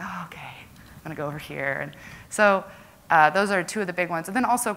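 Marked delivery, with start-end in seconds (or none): 0.0-1.8 soft whispered aside to herself; whispered thought. Retold or imitated. Recalling her thoughts in a VR game, whispered. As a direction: breathe it like a private realization.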